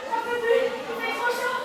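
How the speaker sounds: breathless, panting from the pain; gasping for air, winded; wind knocked out. Real, not acted. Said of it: "je peux pas respirer".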